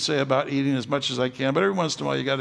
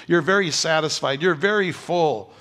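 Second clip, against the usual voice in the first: "very" leaned on, louder; stress on very; 6 dB louder than usual. Acted. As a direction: press each "very" down, slowing. Preaching with rising force.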